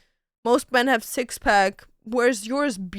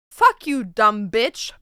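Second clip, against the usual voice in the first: parrot; 3 dB louder, slower than usual. Acted. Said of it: "I can do a parrot".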